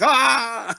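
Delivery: forced laugh. Retold or imitated. Goblins told by their king to laugh, forced laugh. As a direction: imitate henchmen laughing on cue. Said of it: "gonna tell them to laugh".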